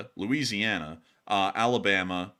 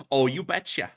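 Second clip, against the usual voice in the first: light mock Midwestern accent; 3 semitones higher than usual. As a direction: put on a folksy Midwesterner's accent. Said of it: "You know, that Midwestern accent thing".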